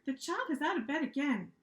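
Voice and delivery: perky know-it-all answer; red monster pointing out the problem, chirpy. Acted. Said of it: "chirped the red monster".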